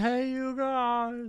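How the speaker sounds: high, drawn-out yelling call. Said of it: "yelling down the street".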